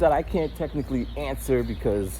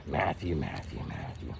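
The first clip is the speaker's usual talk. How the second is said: low droning call; 10 semitones lower, 11 dB quieter than usual. Retold or imitated. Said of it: "you're like".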